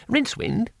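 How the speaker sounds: high, eager little man; chirpy high-pitched foreigner; high tourist voice. A narrator's reading. Two Flower voiced.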